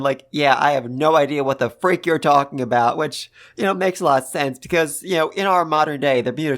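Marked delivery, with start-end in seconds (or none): 0.3-3.0 deadpan. Retold or imitated. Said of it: "Kawaku's completely deadpan".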